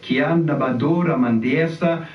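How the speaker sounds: fluid made-up syllables, prayer rhythm; praying in tongues. Shown as a demonstration. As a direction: let the tongues flow out. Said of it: "pray in tongues and you can just join me".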